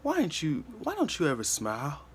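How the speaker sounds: put-on a motherly lady gently pushing the kid; caring second mom. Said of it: "she said".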